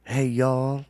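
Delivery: lightly put-on Southern drawl; big Southern voice. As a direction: try out a Southern accent. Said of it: "a big Southern voice".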